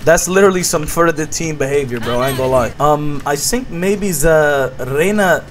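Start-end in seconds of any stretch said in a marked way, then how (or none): 2.8-5.4 put-on halting broken English in a thick foreign accent.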